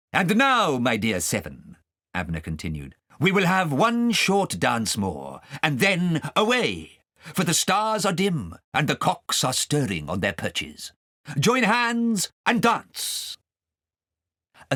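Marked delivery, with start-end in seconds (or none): 0.1-1.8 a hint of a confident old wizard; lightly voiced Abner. Abner telling the witches, lightly voiced wizard. 3.2-13.4 Abner summoning the dance, slow and higher; slow grand call to dance. Acted. Abner calling the witches to dance, slow grand wizard.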